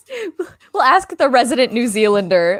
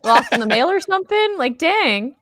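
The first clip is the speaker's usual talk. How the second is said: higher, put-out mock outrage; mock complaint; 5 semitones higher than usual. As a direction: complain like a cheated freeloader. Joking complaint about sponsor freebies.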